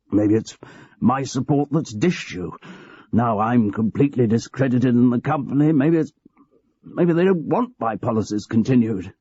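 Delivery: a hint of a cosy old manager confiding; aging boss George. George laments.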